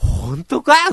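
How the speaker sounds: high, slow, incredulous scoff.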